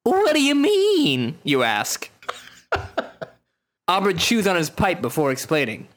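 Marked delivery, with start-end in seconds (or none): 0.0-1.4 cool spy voice, higher and slow; a hammed-up movie spy; secret agent. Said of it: "I gotta pick a really cool spy voice".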